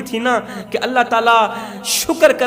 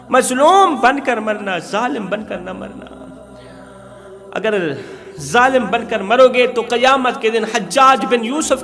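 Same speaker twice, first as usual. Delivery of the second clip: preaching. Real, not acted. Preacher exhorts young men directly.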